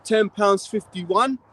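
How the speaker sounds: slow, puzzled mock repeat with "fifty-one" rising; mimicking a flustered cashier getting "fifty-one" wrong; confused wrong number. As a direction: drawl out "Ten pounds fifty-one?" like a baffled cashier. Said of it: "and the woman says".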